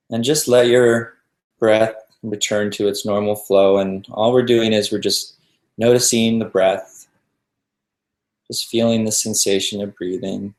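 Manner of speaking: calm meditation guide with long pauses between phrases; even, settled voice leaving room to breathe; guided meditation. Real, not acted.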